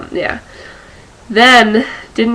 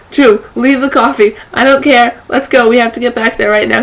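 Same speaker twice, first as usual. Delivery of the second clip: urgent rush; 3 semitones higher than usual. Retold or imitated. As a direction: hurry your friend back now. Urging friend to rush back.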